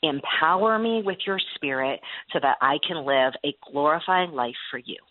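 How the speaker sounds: simple prayer. Shown as a demonstration. Host's guest shows a sample prayer, sincere and gentle. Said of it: "So a simple prayer".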